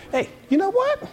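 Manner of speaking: soft, sly devil voice egging him on; sneaky devil coaxing someone into an argument, hushed; devil whispering temptation. Acted. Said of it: "And he's like".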